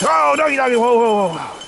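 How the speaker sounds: slowing down the dogs; reining in dogs. Real, not acted. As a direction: hold them back, startled. Dogs pulling too hard.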